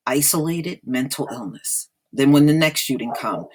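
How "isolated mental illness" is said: mocking parrot. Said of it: "like a broken record".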